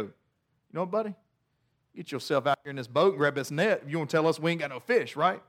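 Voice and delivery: dry, low sarcastic retort; mock the stranger with lazy sarcasm; sarcastic disciple talks back to the man on the shore. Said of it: "the sarcastic disciple".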